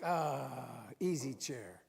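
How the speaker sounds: low, relaxed sigh of relief; contented sigh. Acted. Speaker shows listeners a favourite place of rest, contented sigh. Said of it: "where you just feel like".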